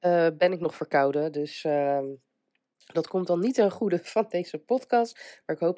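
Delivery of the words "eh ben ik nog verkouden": stuffy cold voice. Real, not acted. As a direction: voice still congested from a cold. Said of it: "zoals je waarschijnlijk wel hoort aan mijn stem".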